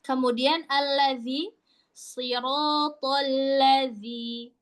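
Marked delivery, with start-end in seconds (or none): 1.9-4.5 slow, drawn-out tartil; measured teaching recitation; Quranic recitation. Shown as a demonstration. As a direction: recite it slowly, holding the long vowels.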